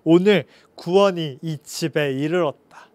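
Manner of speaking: low, slow solemn blessing; gladly declared. Acted. Jesus declaring salvation to Zacchaeus's house, low and slow. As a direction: proclaim it like a gentle blessing. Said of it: "기뻐하시면서 말씀하셨어요".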